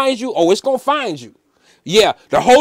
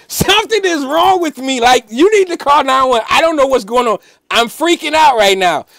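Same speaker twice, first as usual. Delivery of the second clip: high-pitched retold panic; worked-up panic, pitched well up; freaking out; 5 semitones higher than usual. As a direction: call for help in a high, urgent voice. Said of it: "because I was freaking out".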